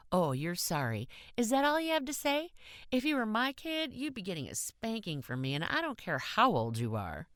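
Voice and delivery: high, mocking scold; sarcastic scolding. A narrator's reading. Kathy sarcastically scolding the boy in the car, high scold. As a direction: throw his apology back at him.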